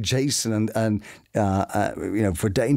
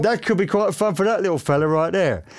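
Slugsy voice trial; 6 semitones higher than usual. Acted. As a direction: try the voice out on the little fella. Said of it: "And I thought".

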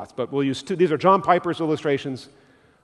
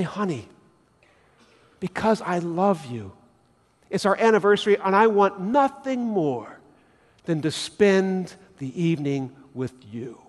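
tender and loving. Retold or imitated. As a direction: say it gently, meaning every word. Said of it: "And you say".

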